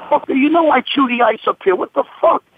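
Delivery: high-pitched exasperated comeback; retold indignant outburst. Bouncer scolding the spitter over his ice, exasperated. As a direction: replay your outraged disbelief.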